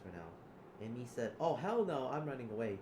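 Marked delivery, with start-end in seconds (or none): 1.4-2.8 high, loud refusal; hammed-up panicked outburst; acted alarm. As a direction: loudly play someone fleeing a gunman. Acting out fleeing from gunman.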